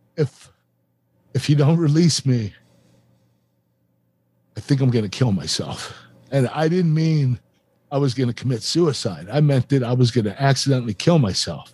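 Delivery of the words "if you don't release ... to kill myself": mock-emotional, slower. Recounting what he said while asking to be released, retelling getting emotional. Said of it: "I'm getting emotional right now".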